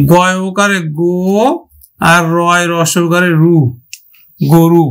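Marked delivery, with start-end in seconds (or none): 1.0-1.1 গো held long as "gooo", rounded o; teacher's sustained "go" syllable for গো; long closed O. Shown as a demonstration. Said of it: "তাহলে আমরা উচ্চারণ করব কিন্তু". 4.4-4.9 গরু said "go-ru", first vowel a rounded o; low, firm "go-ru" for গরু; closed O sound. Shown as a demonstration. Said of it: "তাহলে আমরা উচ্চারণ করব কিন্তু".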